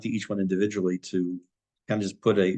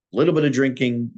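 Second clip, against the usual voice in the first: "little" punched louder and higher; stress on little; 3 semitones higher, 4 dB louder, faster than usual. Real, not acted. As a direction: lean on the word "little". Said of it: "I stress the word little".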